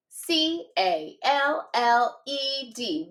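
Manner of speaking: letters tapped out slowly one by one; slow spelling. Shown as a demonstration. Teacher modelling spelling for students, slow tapped letters. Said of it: "Tap it with me".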